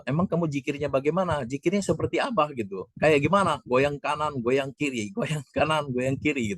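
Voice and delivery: lifted, teasing imitated voice; mock questioning. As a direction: replay the friend's curious tease. Friend asks about the zikir. (menirukan teman bertanya dengan nada menggoda)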